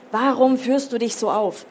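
mildly angry parental rebuke; scolding father. Acted. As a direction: demand an explanation from a teenager. Father scolds in acted quarrel.

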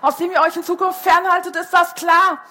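snapping turtle roaring in their heads; thundering turtle. A narrator's reading. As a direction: thunder it out as the angry pond guardian. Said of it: "donnerte es in unseren Köpfen".

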